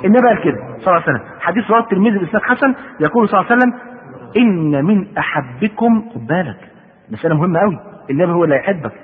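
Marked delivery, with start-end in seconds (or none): 4.4-6.1 very slow, drawn-out formal reading; measured, deliberate quoting; hadith quotation. A narrator's reading. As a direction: draw each word out as sacred text.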